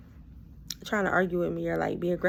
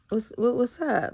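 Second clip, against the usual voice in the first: imitating a too-cool greeting, drawn out and raised; mock-casual what's up, slightly slowed, pitched up; playing it cool; 4 semitones higher, 4 dB louder, slower than usual. Man greets her at the store, playing it cool. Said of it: "he tried to play it so cool".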